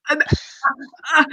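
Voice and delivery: acted tongue-tied stammer; halting, broken starts; starstruck speechlessness. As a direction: try to talk and get stuck. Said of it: "I can't quite talk 'cause I'm so blown away".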